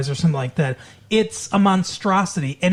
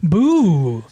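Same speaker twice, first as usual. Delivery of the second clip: dorky spooky boo; 4 dB louder than usual. Pretend. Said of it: "You sound like such a dork".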